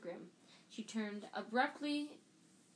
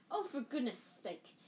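loudly; 3 semitones higher than usual. A narrator's reading. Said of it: "said Hermione loudly".

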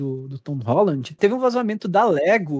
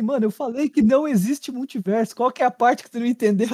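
voz de vilão debochado; 5 semitones higher than usual. Retold or imitated. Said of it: "dar risada assim e falar assim".

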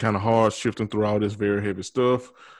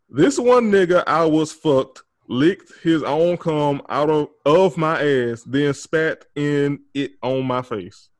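slow, louder, higher dramatic read; 4 semitones higher, 4 dB louder, slower than usual. Shown as a demonstration. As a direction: read it out slowly with shocked emphasis. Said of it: "I'm reading it as is".

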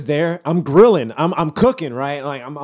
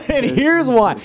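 laughing repeat; 8 semitones higher than usual. Shown as a demonstration. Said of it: "I'm gonna tell my side".

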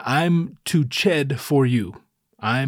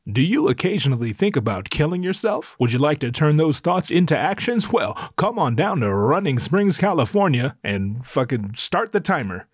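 a hint of an upbeat TV ad announcer; mock TV commercial; 2 semitones higher than usual. Mocks his mountain town in a lightly voiced ad-announcer read. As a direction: sell it lightly like a late-night commercial. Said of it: "That's the T V commercial".

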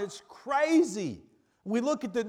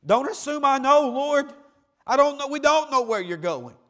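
voicing doubting Thomas; 5 semitones higher, 4 dB louder than usual. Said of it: "he's like me".

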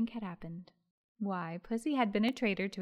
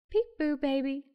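put-on high, bright peekaboo call to a baby; merry; 6 semitones higher, 6 dB louder than usual. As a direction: cheerfully play peekaboo, louder and higher. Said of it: "as merrily as she could".

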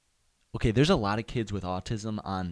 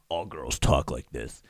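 a hint of a mock girly voice, lower and slower; 8 semitones lower than usual. Vlogger mocking how all girls talk, lightly girly. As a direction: lightly imitate a girl talking, drawn out. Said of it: "she doesn't talk like this".

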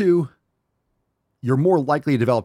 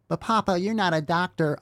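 higher, mocking voice of a doubter; high mocking imitation of a naysayer; mock critic; 8 semitones higher than usual. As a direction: squeak out the critic's objection to make fun of it. Voices a critic objecting to him.

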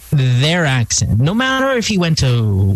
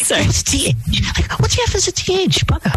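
high, fast hammed-up Australian accent; exaggerated Australian twang, high and quick; mock Australian accent; 9 semitones higher than usual. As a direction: overdo an Aussie bloke. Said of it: "he'd be like".

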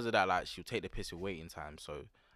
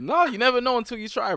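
high, loud laughing protest; 12 dB louder than usual. Real, not acted. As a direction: laugh while insisting. Laughing defending blonde idea.

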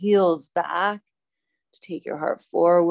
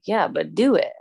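mom intonation; 2 semitones higher, 3 dB louder than usual. Shown as a demonstration. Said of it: "I said that with a weird, like, mom intonation".

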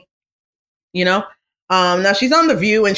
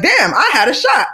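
mock lament; 7 semitones higher than usual. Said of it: "And I was like".

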